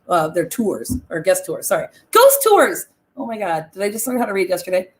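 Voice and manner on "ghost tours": emphatic correction. Real, not acted. Correcting her own misreading.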